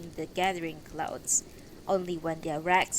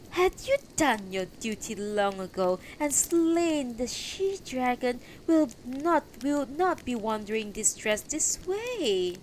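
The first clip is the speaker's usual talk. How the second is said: slightly raised, reproachful woman; scornful voice; 5 semitones higher than usual. Acted. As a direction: throw the blame at the knight. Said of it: "broke into a sarcastic laugh, and then a voice said".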